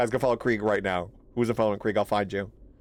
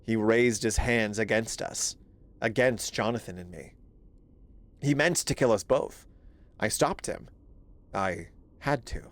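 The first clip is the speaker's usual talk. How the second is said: a lightly hushed, grave read of a diary note; dramatic reading. Acted. Streamer reads the killer's note aloud in a hushed voice. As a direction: read it like a haunted confession.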